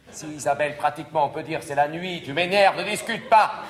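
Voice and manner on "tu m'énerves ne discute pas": scolding. Acted. Mère gronde sa fille.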